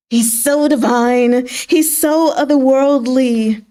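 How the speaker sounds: slow, lovestruck sighing; dreamy awe. Retold or imitated. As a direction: linger on each word, smitten. General gazes at his lover.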